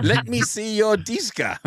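cracking up at your own joke; laughing. Pretend. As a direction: barely get the silly sentence out for laughing. Jokey example sentence, host cracks up.

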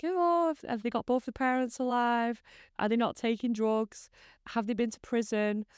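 a nosy friend's checklist voice; mimicking friends. Friends quizzing her, mimicked.

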